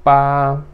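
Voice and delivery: "Pá" held level and loud; first tone. Shown as a demonstration. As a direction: sustain "Pá" on one even note. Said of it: "primeiro tom".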